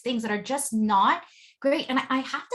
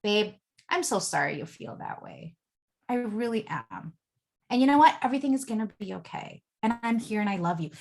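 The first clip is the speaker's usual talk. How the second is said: soft reassurance; 2 semitones lower than usual. Retold or imitated. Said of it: "all he really says to me is".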